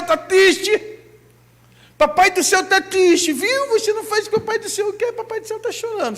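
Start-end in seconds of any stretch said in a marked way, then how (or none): 2.0-6.2 put-on higher sing-song baby talk, quick; mock talk to a small child; talking to a toddler. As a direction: coo it at a two-year-old, mocking the idea. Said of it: "Isso é bom pra criancinha de dois aninhos".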